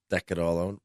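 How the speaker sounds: "deck" said in place of "decorate"; clipped mispronunciation. Real, not acted. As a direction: say just "deck it", dropping the last syllables of decorate. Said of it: "You were almost there".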